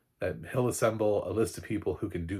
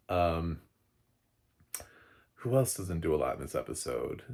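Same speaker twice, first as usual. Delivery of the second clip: ordinary delivery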